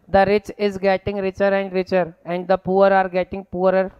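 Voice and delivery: very slow word-by-word dictation. Shown as a demonstration. Teacher dictating a sentence to copy down, very slowly. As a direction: read it slowly so students can write.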